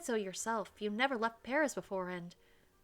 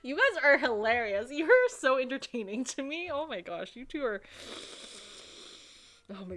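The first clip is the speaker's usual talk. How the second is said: loud, higher, laughing delight at the quarrel; real laughing; 4 semitones higher, 6 dB louder than usual. Real, not acted. Player laughing at the couple's fight, loud delight. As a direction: cackle through it, thoroughly entertained.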